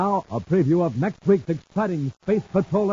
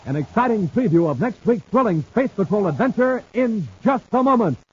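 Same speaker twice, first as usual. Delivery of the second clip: bright, punchy promo read; radio announcer; 3 semitones higher than usual. Acted. Announcer teasing next week's show in a radio promo voice. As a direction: sell the coming episode.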